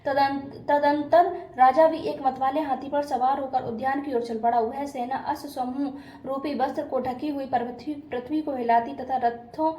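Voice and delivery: steady scripture recitation with small stumbles and restarts; devotional story reading. A narrator's reading. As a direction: read a Hindu vrat katha aloud. Reads the katha aloud.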